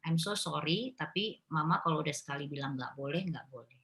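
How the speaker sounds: put-on mother gently refusing her toddler, soft and calm; calm firm refusal. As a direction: quietly hold the line, kind and steady. Mother calmly refusing child.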